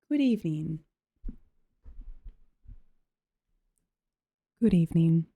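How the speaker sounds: low, calm radio-host greeting; mock soothing host. Streamer mock-welcoming chat to a calm stream, hushed. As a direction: greet them like a late-night calm show. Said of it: "we're back on the soothing".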